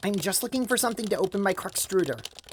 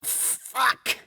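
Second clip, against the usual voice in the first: startled gasp; 4 semitones higher than usual. Acted. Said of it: "clutching your chest".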